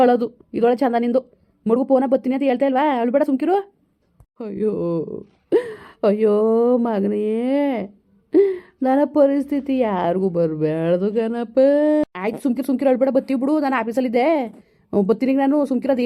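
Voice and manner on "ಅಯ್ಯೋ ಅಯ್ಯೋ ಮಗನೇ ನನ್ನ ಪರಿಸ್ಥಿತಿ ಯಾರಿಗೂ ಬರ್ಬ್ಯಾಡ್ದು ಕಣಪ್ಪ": a hint of a lamenting old grandfather, pleading; old grandpa begging his grandson to come, mildly lamenting; lightly voiced old grandpa. Grandpa on the phone to grandson Madeva, mildly lamenting.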